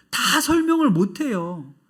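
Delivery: slow words through tears; choked up. Real, not acted. Preacher tearing up over a grieving father, choked. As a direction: let the tears catch the words.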